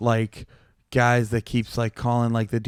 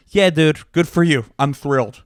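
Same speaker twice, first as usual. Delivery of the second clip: dry mock congratulation with a slight edge; lightly sarcastic, not too much tone; a touch of sarcasm, louder than before; sarcastic, a tad bit of tone; 2 semitones higher, 5 dB louder than usual. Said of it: "I said it kinda like that. Not with, like, too much tone, but a tad bit of tone".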